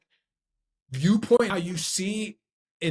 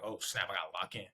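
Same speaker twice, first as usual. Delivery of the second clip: low, hushed aside to oneself; quiet note to self; muted alarm; 9 semitones lower, 13 dB quieter, faster than usual. Retold or imitated. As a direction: say it under your breath, far lower and softer. Child reacting to parent's voice.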